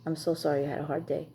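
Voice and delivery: soft, sincere sorry for her hard day; sincere sympathy. Retold or imitated. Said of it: "What do you wanna hear from your husband?".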